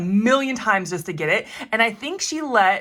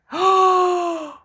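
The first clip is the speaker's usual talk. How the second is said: high, loud gasp of surprise; 9 semitones higher, 6 dB louder than usual. Real, not acted. Crafter gasping at the rolled stamp.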